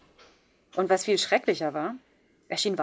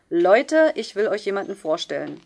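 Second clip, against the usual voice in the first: put-on hearty call to the kids, then chummy; jovial; 6 dB louder than usual. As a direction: play the cool buddy teacher. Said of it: "sagte er jovial".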